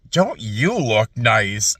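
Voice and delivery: slow, low imitation of a friendly lady; lady's voice. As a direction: mimic a sweet stranger. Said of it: "this lady goes".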